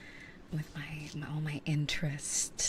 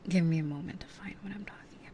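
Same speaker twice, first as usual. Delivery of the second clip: whispering. Real, not acted. ASMR whisper chat.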